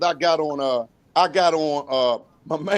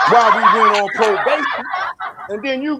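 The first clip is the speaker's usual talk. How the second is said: laughing; 3 semitones higher, 4 dB louder than usual. Real, not acted. Laughing while teasing friend.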